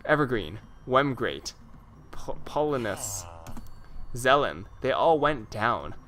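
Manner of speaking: slow words pushed out through a burp. Real, not acted. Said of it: "I have to burp".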